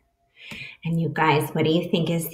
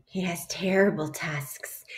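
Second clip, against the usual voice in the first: spooky whisper; 5 dB quieter than usual. Acted. Mouse describes scary monster.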